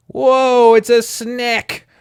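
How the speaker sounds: high, loud startled cry. Real, not acted. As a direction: jump at the sight of a snake. Reader startled by snake.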